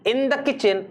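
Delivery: very slow, each word pulled out cleanly; slow, word-by-word careful recital; slow and clear. Shown as a demonstration. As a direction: say every word carefully one by one. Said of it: "एक एक शब्द को सही से निकालो".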